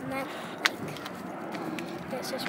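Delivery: slow breathy whisper. Real, not acted. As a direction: keep whispering, drawn out. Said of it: "I'm whispering".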